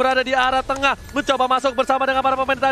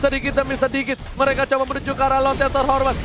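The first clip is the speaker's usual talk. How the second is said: esports caster. Acted. Live esports play-by-play.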